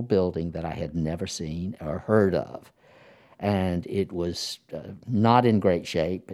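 muffled, speaking behind a mask; through a face mask. Real, not acted. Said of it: "You can hear him speak through a mask".

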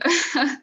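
brief disbelieving laugh; short laugh. Real, not acted. Laughing at awkward memory.

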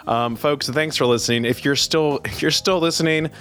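smooth, even host sign-off; radio outro read. Acted. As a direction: close the show for listeners.

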